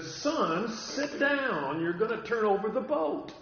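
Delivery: father mildly scolding his son to sit down; mild stern warning. Retold or imitated. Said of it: "my dad very sternly said".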